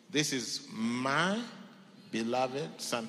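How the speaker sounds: "This is my" drawn out slowly, "beloved son" firm; slow down on "This is my" then land "beloved son"; stress on each word. Shown as a demonstration. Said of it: "take note of these words".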